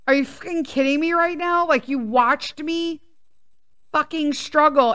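exasperated retold telling-off; retold outrage. Acted confrontation with watching husband.

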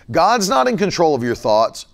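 NOT leaned on with a pause; stress on NOT. Shown as a demonstration. Preacher repeats it to the congregation, stress on not. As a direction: hammer the word not. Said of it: "Let me say it again".

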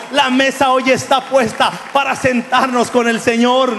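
loud, driving sermon delivery; full-force preaching. Acted. Pastor urging his church not to forget, loud and fervent. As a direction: preach it out to the whole congregation.

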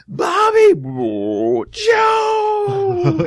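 high, hollered name-calling shout; imitated film yell. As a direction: holler it out loud, high and drawn out. Imitating characters yelling in film.

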